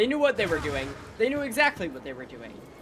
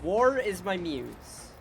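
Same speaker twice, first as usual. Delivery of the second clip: dramatic quote; much slower than usual. Retold or imitated. Echoing the game character's line.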